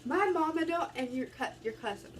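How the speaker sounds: high, loud taunting voice; mocking city kids. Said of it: "y'all city kids are sitting like".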